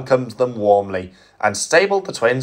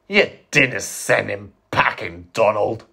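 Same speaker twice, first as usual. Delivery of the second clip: disbelief. Acted. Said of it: "he said in disbelief".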